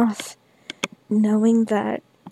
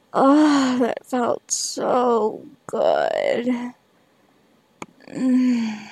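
slow afterglow; much slower than usual. Real, not acted.

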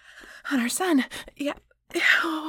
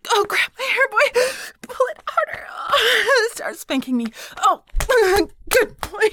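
loud high cries; 9 semitones higher, 8 dB louder than usual. Acted.

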